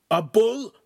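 high, loud incredulous questions; loud outrage. A narrator's reading. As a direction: spit out each phrase furiously. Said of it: "Ugolino said loudly".

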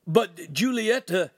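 high, loud, slow objection; pleading protest. A narrator's reading. Wounded Ugolino protesting to the noble, high pleading.

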